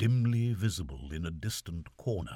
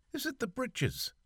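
raised Irish servant's query; puzzled valet asking back; lightly voiced Irish valet; Barney's voice.

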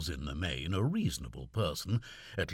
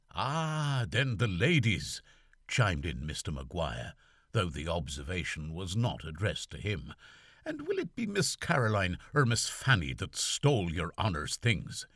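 raised Irish servant's query; puzzled valet asking back; lightly voiced Irish valet; Barney's voice.

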